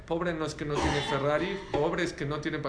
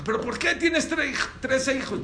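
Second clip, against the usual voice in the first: surprised; 8 semitones higher, 5 dB louder than usual. Retold or imitated. Brother baffled by the claim.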